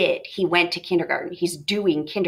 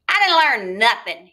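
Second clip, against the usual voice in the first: cold; 4 dB louder than usual. Acted. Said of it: "regarded his father coldly".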